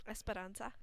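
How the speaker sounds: Esperanza with a Spanish-style rolled r; Spanish accent. Shown as a demonstration. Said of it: "I say it in a Spanish accent".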